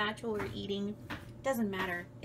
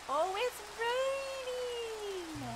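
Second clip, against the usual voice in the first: surprised; 11 semitones higher, much slower than usual. Real, not acted. Surprised in game.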